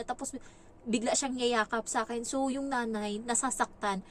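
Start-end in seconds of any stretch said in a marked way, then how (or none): none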